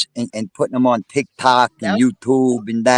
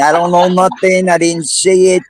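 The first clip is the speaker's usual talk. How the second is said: laughing tease; 5 semitones higher than usual. Real, not acted. Teasing a guest about confessing.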